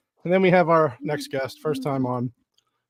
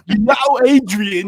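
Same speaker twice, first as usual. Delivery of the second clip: Rocky impression; 7 semitones higher, 8 dB louder, much slower than usual.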